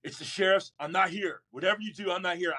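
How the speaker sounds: mildly frantic instructions. Retold or imitated. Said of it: "my dad comes frantically in".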